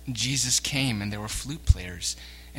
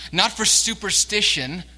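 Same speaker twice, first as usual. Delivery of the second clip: emphatic denial; 7 semitones higher, 6 dB louder than usual. Real, not acted. Preacher rebuts superstition.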